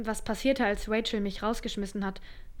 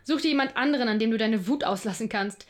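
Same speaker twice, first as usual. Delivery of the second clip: angry pushback; 5 dB louder than usual. Acted. Psychologist fights back in quarrel.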